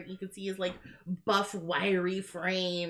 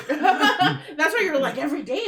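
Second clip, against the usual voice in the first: laughing; 7 semitones higher, 8 dB louder than usual. Real, not acted. Laughing at the misunderstanding.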